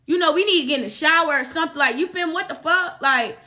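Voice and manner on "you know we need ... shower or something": quick, light polite suggestion; polite hint. Retold or imitated. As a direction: say it nicely, hinting. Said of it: "that's the nice way of me telling you".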